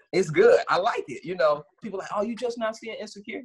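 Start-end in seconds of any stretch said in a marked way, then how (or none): 2.1-3.4 mock surprise. Quotes people teasing him for lateness.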